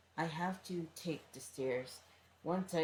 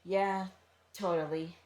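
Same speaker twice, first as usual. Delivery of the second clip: hasty, a bit loud reassurance; too quick answer; 3 semitones higher, 6 dB louder than usual. Acted. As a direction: blurt it out too fast. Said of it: "I answered a bit too quickly".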